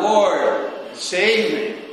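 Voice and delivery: high, loud desperate cry for help; cried out. A narrator's reading. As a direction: call out like a sinking man. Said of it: "and cried out".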